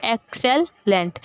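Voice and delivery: "एक्सेलेंट" slowly as एक, सेल, लेंट; syllabic division. Shown as a demonstration. Teacher repeating the division, "एक्सेलेंट" said piece by piece. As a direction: keep short gaps between the syllables of "एक्सेलेंट". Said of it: "syllabic division हमने देनी".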